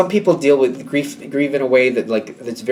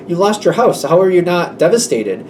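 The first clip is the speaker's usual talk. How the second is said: raised pitch of acted disbelief; incredulous; 4 semitones higher than usual. Worried friend to someone who lost their house, incredulous. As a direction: press them, baffled by their calm.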